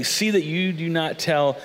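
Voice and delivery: slow, deliberate warning; measured, solemn caution; strong warning. Acted. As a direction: warn them firmly, taking your time. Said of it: "with a strong warning".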